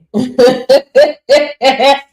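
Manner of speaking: big happy cackle, loud; loud delighted laugh. Real, not acted. Coach laughing loudly at her student's thousand-dollar day.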